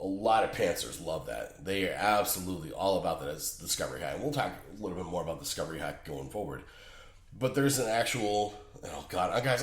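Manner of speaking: stuffy blocked nose, mouth breathing. Real, not acted. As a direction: talk through a blocked nose. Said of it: "I can't breathe through my nose".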